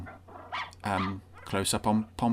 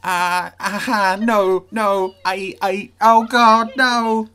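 louder, higher cries of disgust; horrified outburst; 9 semitones higher, 11 dB louder, much slower than usual. Real, not acted. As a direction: recoil in real horror. Reviewer horrified by creepy scene.

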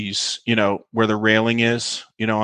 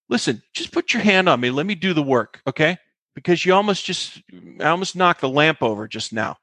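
higher-pitched telling-off; retold exasperation; 6 semitones higher than usual. Actress sets her co-star straight on set, exasperated. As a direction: lay down the law to a hopeless co-star.

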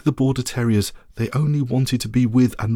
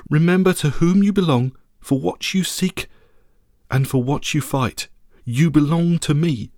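raised, stately queenly charge; solemn regal blessing; 3 semitones higher than usual. Acted. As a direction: send them off with grand resolve. Lady's charge to the knights.

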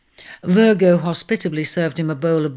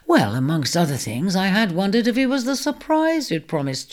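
teasing; 5 semitones higher than usual. Acted. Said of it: "she teased".

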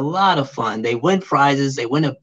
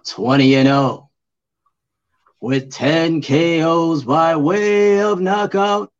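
boxer announcer voice; slower than usual. Pretend. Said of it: "boxer announcer voice".

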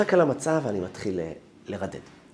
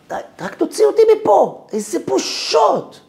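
high, loud cry for rescue; desperate pleading; 9 dB louder than usual. Retold or imitated. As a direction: beg to escape, stretching out the shame. Desperate plea to God in shame. (תחינה נואשת בקול גבוה)

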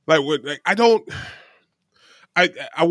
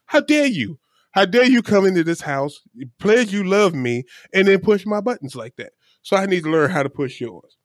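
higher, affronted outburst; mock indignation; 4 semitones higher than usual. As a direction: act wounded and vengeful. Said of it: "So I'm like".

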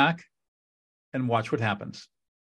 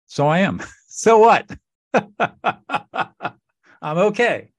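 high, loud laughing shrug-off; laughing self-acceptance; 8 semitones higher, 5 dB louder than usual. Acted. Person talking to themselves about their own emotions, laughing it off.

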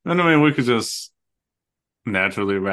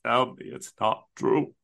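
imitating a grieving queen; anguished denial; 3 dB quieter than usual. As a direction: plead it in mock disbelief. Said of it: "The way that Sarabi says it".

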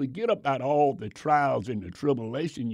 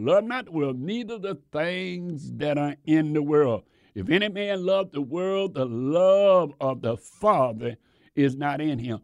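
preached scripture. Shown as a demonstration. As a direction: proclaim the verse to the church. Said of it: "the scripture where it said".

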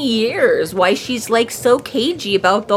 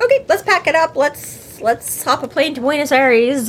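eager to flee; 5 semitones higher than usual. Acted.

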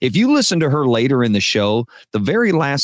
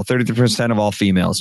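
quicker, words run into one another; hurried repeat with no gaps between words; run together; faster than usual. Retold or imitated. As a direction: imitate a kid rushing the line. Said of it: "and run it together".

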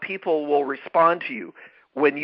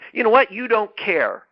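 judgmental accusation; 5 semitones higher than usual. Retold or imitated. Leader mocking a judgmental boss accusing staff, sharp dismissive jab. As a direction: fling the accusation out, then drop it dismissively. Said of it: "Well, that's a judgment".

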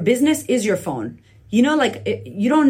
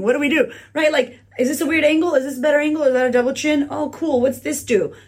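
a touch of fussing over the camera, a bit higher; mock fussy vlogger; 4 semitones higher than usual. First-time vlogger checking angle, lightly mocking. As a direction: playfully act unsure of the angle.

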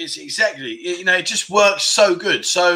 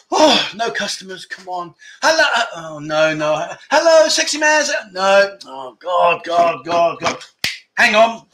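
put-on bar girl voice. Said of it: "So I'm now the bar girl".

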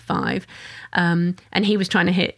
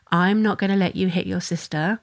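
calm and loving. Retold or imitated. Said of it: "simply and calmly and lovingly say".

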